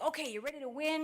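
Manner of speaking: rally the favourite to win; eager pep talk. Retold or imitated. Contingent to the other American, eager pep talk.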